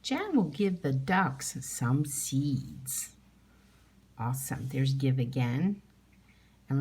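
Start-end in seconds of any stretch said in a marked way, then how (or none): 0.0-3.1 slow, even, word by word; teacher rereading the sentence slowly. Shown as a demonstration. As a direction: read it again slowly for the class. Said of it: "I'm gonna read that one more time".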